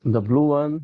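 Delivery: "blue" stressed in "The blue one.". Shown as a demonstration. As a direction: hit "blue" to pick out the colour. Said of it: "you have to mimic this".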